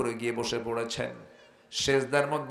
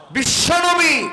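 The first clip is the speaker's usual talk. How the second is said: shout; 11 dB louder, slower than usual. Real, not acted. Preacher shouts at climax.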